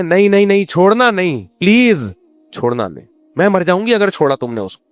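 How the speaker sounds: lightly voiced wife begging her husband; pleading wife. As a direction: plead with him not to leave, hammed-up. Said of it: "ایسا بناؤ کہ بیوی خود کہے".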